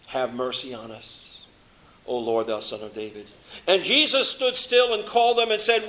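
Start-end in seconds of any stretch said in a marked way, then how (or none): 0.1-3.3 much softer and lower plea; preacher quietly voicing the blind men's plea; hushed, low pleading. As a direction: pray it almost under the breath. Cry repeated to hurting listeners.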